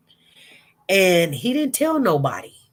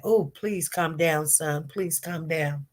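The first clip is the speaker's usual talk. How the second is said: softer, lower retold plea; pleading to calm down; 3 semitones lower, 6 dB quieter, slower than usual. Watcher silently urging the boy on the stand, pleading. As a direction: quietly urge him to settle.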